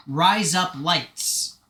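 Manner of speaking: "Rise up lights" slow, each word fully enunciated; over-enunciated phrase. Shown as a demonstration. Streamer teaching the phrase to say, "Rise up lights" carefully enunciated. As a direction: say "Rise up lights" slowly, every word separate. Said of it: "don't enunciate everything so much".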